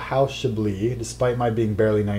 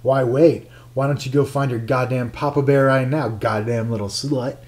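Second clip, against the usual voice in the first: angry jealous lover. Acted. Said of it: "his face contorted in anger".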